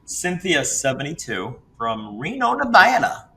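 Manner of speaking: lightly put-on Texas drawl reading the caller out; a mock Texas host reading the caller's card; bad Texas accent. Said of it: "my bad Texas accent".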